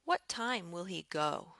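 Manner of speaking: "What time will he go" up, then falling on "go"; rising-falling question. Shown as a demonstration. Teacher showing a "what" question, rising-falling intonation. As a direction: let the question drop at "go". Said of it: "Another place we use the rising, falling".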